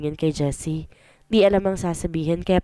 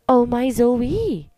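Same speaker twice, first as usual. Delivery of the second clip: shocked gasp; 5 semitones higher, much slower than usual. Acted. Shocked at pregnant friend.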